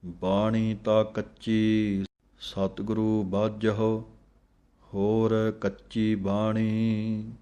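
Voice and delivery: slow, devout chanting of scripture; measured devotional reading; slow gurbani recitation. Acted. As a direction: recite it slowly like a hymn.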